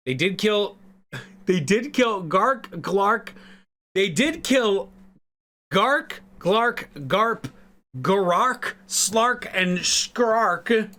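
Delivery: listing the dead with a half-hearted Irish lilt; Irish accent. Acted. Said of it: "I'm bad at Irish accents".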